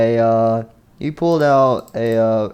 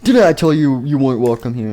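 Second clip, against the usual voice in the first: louder acted rebuke; scolding; 2 semitones higher, 5 dB louder than usual. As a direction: tell off an unwelcome servant. Villain scolds servant in story.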